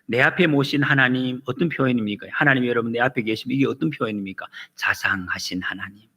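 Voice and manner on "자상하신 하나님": soft unvoiced whisper; whispered tenderly. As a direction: breathe it like a secret of love. Tender whisper about God. (속삭이듯 다정하게)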